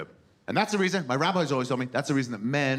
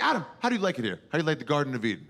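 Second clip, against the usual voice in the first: God voice; 3 semitones higher, much faster than usual. Acted. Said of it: "God went to Adam and was like".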